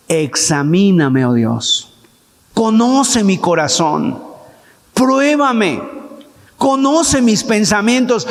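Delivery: lectura lenta y grave del salmo, como oración; súplica solemne del salmo. Retold or imitated. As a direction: reza el salmo despacio, con recogimiento. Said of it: "el salmista David dice". (súplica lenta y solemne a Dios)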